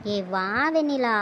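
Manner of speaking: slow, coaxing plea; pleading. Acted. Begs friend to come to the river, drawn-out pleading. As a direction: draw it out and coax her along. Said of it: "ஓவரா கெஞ்சாத".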